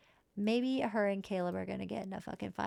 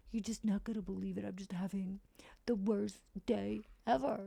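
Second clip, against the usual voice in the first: whiny mock complaint. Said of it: "He's like".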